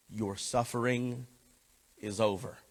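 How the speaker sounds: a tender hushed promise; soft whisper. Retold or imitated. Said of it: "Jesus just whisper to you".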